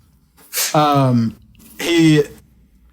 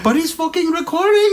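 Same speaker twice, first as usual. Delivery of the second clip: laughing mock whine; 11 semitones higher than usual. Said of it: "And he's like".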